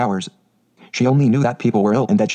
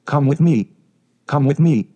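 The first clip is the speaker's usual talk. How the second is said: urgent panicked plea; 4 semitones higher, slower than usual. A narrator's reading. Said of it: "the Mem Sahib cried".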